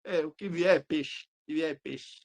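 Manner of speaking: slow, lightly acted nonchalance; serene, all-business player imitation; Romário. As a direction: shrug it off, completely unbothered. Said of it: "É a postura do Romário".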